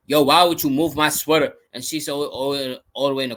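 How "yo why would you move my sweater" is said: casual complaint. Retold or imitated. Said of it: "you could be like".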